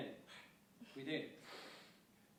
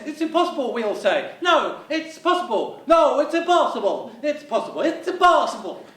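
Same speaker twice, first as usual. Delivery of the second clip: raised voices, back and forth argument; comic shouting match; 3 semitones higher than usual. Acted. Comic argument, louder higher.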